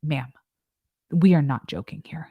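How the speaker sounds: imitated stern instructor. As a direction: deliver a measured scolding, pausing after the address. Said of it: "very sternly, she's like".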